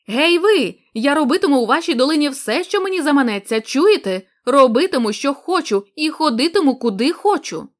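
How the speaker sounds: loud shout. Acted. Nunez shouting defiance at the blind villagers, loud. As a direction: yell it out at the crowd. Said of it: "він голосно закричав".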